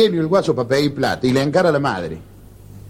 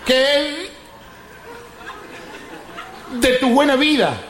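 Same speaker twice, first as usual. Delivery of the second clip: higher, halting mock stutter; stammering friend greeting; 6 semitones higher, much slower than usual. Stammering friend greeting his pal, halting and higher.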